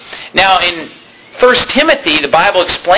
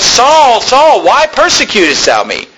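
calling voice; 4 semitones higher than usual. Retold or imitated. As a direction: call out his name, then ease into the question. God's voice calling Saul.

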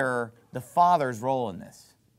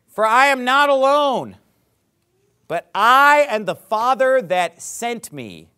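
emphatic preaching; 6 semitones higher, 7 dB louder, slower than usual. Real, not acted. Preacher driving home a verse.

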